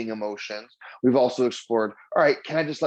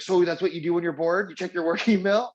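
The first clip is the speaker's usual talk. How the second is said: amused disbelief; 6 semitones higher than usual. Retold or imitated. Teasing wife about late email.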